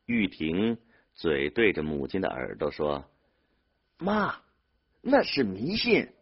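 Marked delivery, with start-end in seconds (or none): 4.0-6.1 put-on high-pitched call into an old mother's ear; raised, insistent objection; urgent objection. A narrator's reading. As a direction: protest it high to someone hard of hearing. Son objects into deaf mother's ear.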